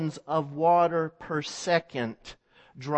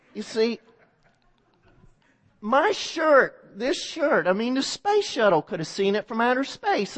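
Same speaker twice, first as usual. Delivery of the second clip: arrogant bragging; 4 semitones higher than usual. Acted. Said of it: "He goes".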